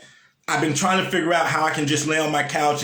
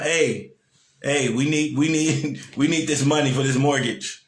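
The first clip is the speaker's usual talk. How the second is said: mock demanding lender; 3 semitones lower than usual. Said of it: "That's all they care about".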